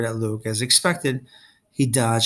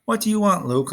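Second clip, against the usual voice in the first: growled; 8 semitones higher than usual. A narrator's reading. Percy confronting Luke at the dock, growling. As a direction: growl it at him, hostile. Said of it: "I growled".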